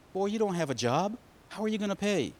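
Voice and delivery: lightly acted incredulous father; incredulous dad. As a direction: question the boy like a baffled dad. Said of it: "And Dad said".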